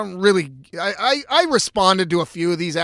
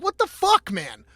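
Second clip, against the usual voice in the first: incredulous outburst; 8 semitones higher than usual. Retold or imitated. Own outraged reaction retold.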